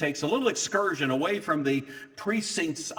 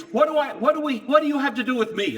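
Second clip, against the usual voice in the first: high, loud, fast stammering outburst; a cornered demon lashing out; demon protesting; 10 semitones higher, 5 dB louder, faster than usual. Retold or imitated. Demoniac confronting Jesus on the beach, shrieking in loud protest.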